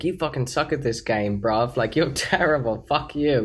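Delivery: mock British lad trash talk; British accent. Reading brother's rude game chats aloud, British accent. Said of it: "why are you doing a British accent".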